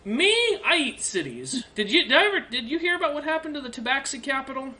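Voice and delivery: high, showy bragging; boastful dragon. Acted. Dragon bragging to the party, high and showy. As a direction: brag like a monster that eats cities.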